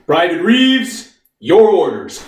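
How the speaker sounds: officer addressing a private, firmly; commanding officer. Acted. Officer handing Private Reeves his orders, commanding. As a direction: give orders as a military officer.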